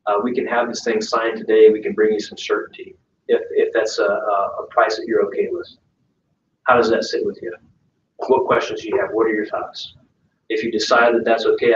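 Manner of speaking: upbeat, sure agent breaking good news to a client; confident direct pitch. Shown as a demonstration. Agent calling a seller about a five grand gap, confident. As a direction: sell it as great news, steady and assured.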